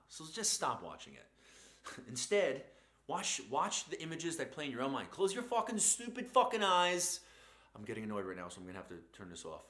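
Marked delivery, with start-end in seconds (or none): 5.1-7.2 high, loud, slow barked command; drill shout. Acted. Telling the listener to shut their eyes, in a furious bark.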